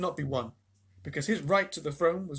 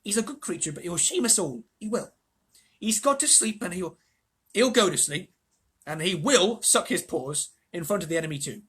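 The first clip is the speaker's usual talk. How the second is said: higher-pitched Bristol dwarf; Bristolian accent; 3 semitones higher, 4 dB louder than usual. Acted.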